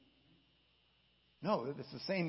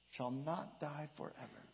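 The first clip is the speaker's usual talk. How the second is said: quiet echo; 6 dB quieter than usual. Shown as a demonstration. Preacher echoes the literal reading, soft and hushed. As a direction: softly repeat it, letting it sink in. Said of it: "Literally, it says".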